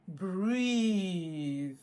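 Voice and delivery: calm cue. Shown as a demonstration. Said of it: "Here's step one".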